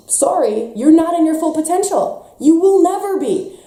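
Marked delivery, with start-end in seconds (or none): none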